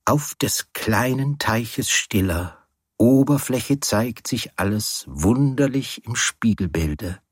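a different voice for the poem's next verse; changed reciting voice. A narrator's reading. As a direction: recite it in a new, dreamy voice. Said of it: "mit veränderter Stimme weitersprechen".

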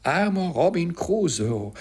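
high, swooping parrot call; parrot's cry. A narrator's reading. Parrot greets the returning castaway, crying out high. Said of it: "rief er".

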